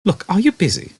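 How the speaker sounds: brisk and offhand; Ford voice. A narrator's reading. Ford asking Arthur in the mud if he's busy, casual.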